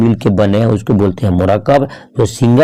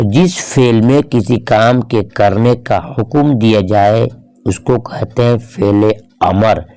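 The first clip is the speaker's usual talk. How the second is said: slow, word by word; slow, measured definition; slower than usual. Shown as a demonstration. Teacher defining the imperative verb to students, slow and measured. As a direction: spell out the definition slowly for learners.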